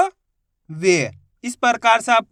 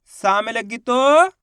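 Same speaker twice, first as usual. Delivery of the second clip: slow drill; slower than usual. Shown as a demonstration. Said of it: "इसी तरीके से ना में लगी तो बोलिए".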